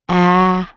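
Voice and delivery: A-lug split apart, loud "A", then "lug"; syllable by syllable. Shown as a demonstration. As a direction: separate A-lug with a long gap, audible G. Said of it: "Hear a little G in there".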